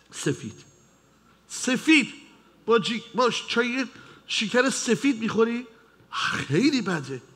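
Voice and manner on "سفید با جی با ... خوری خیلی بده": shocked doctor. Acted. Doctor shocked at white sugar.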